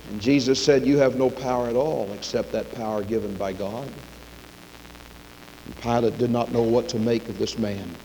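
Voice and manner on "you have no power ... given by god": low, soft, measured answer; subdued voice of quiet authority; calm reply. Retold or imitated. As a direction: answer power quietly, voice dropped. Jesus calmly answers Pilate.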